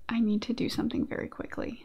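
soft, whispery quick confession; quiet, unvoiced aside after a laugh; hushed aside. Real, not acted. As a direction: drop to a near-whisper. Aside before working out a pun.

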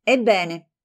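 "Ebbene" tight, falling, barely holding fury; livid "Ebbene". Acted. Livid friend starting her furious reply. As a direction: spit out "Ebbene" pale with anger. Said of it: "diventò livida".

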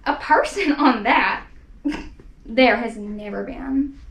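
a hint of a sneering kangaroo, slow, with a laugh; slow mocking scoff, laughing at the idea; lightly voiced sour kangaroo. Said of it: "'Twas a sour kangaroo".

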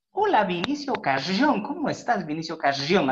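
a light mock of the colleague's sing-song greeting; teasing imitation. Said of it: "Así hacía".

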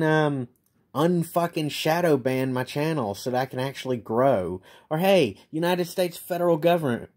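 real bitter scorn, calling them out; angry rant. Real, not acted.

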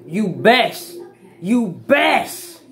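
talking around a lip full of dip; words thick from a lip full of dip. Real, not acted. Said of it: "I'm packing the lip up".

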